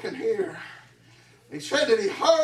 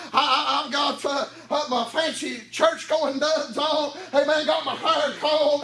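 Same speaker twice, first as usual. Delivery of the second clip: chanted whooping sermon, a sharp huh after each line; preaching at full force; 3 semitones higher than usual. Acted. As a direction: drive each phrase up and bark a huh at the end. Sermon builds back to whooping.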